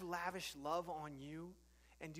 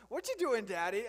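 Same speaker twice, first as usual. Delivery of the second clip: put-on toddler son repeating; 5 semitones higher, 9 dB louder than usual. Son asks a fourth time.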